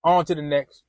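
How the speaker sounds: low, soft, offhand mother; lightly voiced mother moving on; mother telling her son to find another woman, low and offhand; mom's voice. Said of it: "And she's like".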